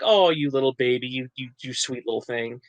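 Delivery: cooing gloss, softening toward the end; mock endearment. Explaining what the catchphrase means, imitated doting tone. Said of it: "Just like".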